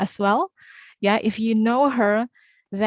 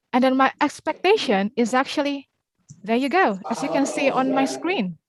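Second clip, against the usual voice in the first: exaggerated intonation. Real, not acted. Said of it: "I sound very exaggerated tonight".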